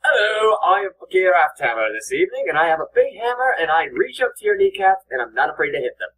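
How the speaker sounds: put-on Northern European accent. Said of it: "he needs to lose the accent".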